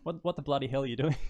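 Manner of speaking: Australian example. Shown as a demonstration. Coaching a guest on Aussie phrases in an Australian accent. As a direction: model the Australian phrase for a learner. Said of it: "Just try, like".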